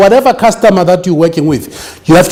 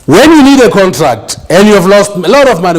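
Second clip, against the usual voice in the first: louder, higher voice of a lawyer friend giving a warning; retold friend's advice; 4 semitones higher, 4 dB louder than usual. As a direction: act out the friend lecturing him, a touch raised. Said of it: "And this guy says to me".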